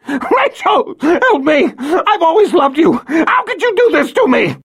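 high frantic begging; desperate pleading. Acted. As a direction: plead for your life. Violet pleading while attacked.

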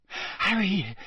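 high, breathless call; out-of-breath girl calling; panting. A narrator's reading. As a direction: call out between pants, pitched high. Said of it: "she panted".

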